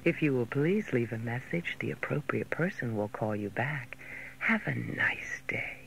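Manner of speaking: low, hushed, secretive voice; whispered greeting. Shown as a demonstration. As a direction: breathe the message softly. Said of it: "Now, listen".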